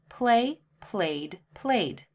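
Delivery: played, voiced d at the end. Shown as a demonstration. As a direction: model played clearly. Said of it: "the E D endings all sound differently".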